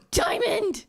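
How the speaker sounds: high thrilled cry; excited. Real, not acted. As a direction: shout it out in delight. Finds a diamond.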